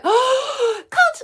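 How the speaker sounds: high-pitched mock squeal; gasp, then call out like a thrilled kid; excited student. Imitating club students calling their coach, high excited squeal. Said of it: "they're like".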